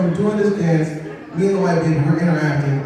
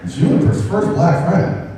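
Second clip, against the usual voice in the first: disbelief; slower than usual. Retold or imitated. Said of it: "And I'm just like".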